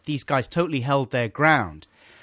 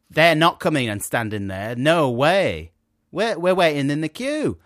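firm refusal; 3 semitones higher, 7 dB louder than usual. Retold or imitated. Men refusing the queue-jumpers.

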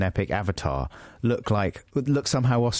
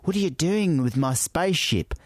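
higher-pitched attempt at an Australian accent, drifting toward New Zealand; muddled Australian accent; 5 semitones higher than usual. Imagining an Avatar alien challenging someone, muddled Australian accent. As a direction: have a wobbly go at Australian, slightly New Zealand. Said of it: "what's that accent? I don't know".

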